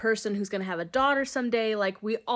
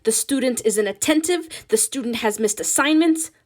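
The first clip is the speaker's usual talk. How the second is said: put-on Ma reads the report aloud in a heavy Hispanic accent, louder; 3 semitones higher, 6 dB louder than usual. Ma reading the progress report in a heavy Spanish accent. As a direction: read it in a thick Mexican-Spanish accent. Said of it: "reads in her heavy accent".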